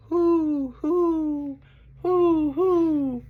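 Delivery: high, long hooting; owl hoot. Acted. Reader imitating an owl for children, high hooting. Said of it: "He can sound like an owl".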